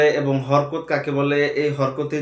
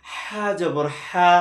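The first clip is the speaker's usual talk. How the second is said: হা জবর হা drawn out very slowly; slow teacher spelling; much slower than usual. Shown as a demonstration. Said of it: "পরেরটা নিব".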